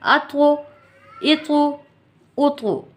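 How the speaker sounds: अतो, इतो, उतो with the त bounced into a short echo; qalqala echo. Shown as a demonstration. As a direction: shake the letter loose at the end. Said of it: "कैसे?".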